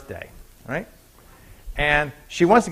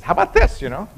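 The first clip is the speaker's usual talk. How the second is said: cheery salesman; 3 semitones higher than usual. Acted. Shop owner offering an iguana.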